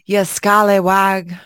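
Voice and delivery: slow, mock British name-calling; imitated British insult. Echoing how they cuss over there, mock British. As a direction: draw out the insult in fake British. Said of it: "over there, they're like".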